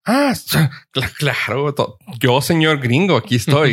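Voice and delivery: lightly hammed gringo persona; mock gringo. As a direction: play along as a fake gringo. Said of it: "Y yo".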